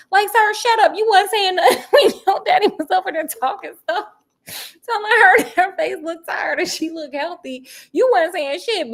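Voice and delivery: high, loud laughing scold; calling him out. Real, not acted. Scolding Sonny to viewers, loud and laughing. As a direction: tell him off through laughter.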